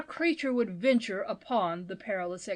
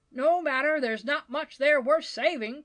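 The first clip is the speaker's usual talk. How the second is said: raised, louder bystander's call; 5 semitones higher, 5 dB louder than usual. A narrator's reading. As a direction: call across a crowd dismissively. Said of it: "called a man from the crowd".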